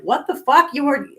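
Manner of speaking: high, loud mock disbelief; shocked disbelief. Friends stunned she was always drunk, high loud disbelief. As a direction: react like you can't believe she drank. People's shocked reaction retold.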